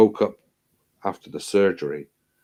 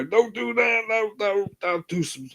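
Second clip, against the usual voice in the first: high, squeaky panicked nurse voice; mock nurse pleading; 13 semitones higher than usual. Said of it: "And they go".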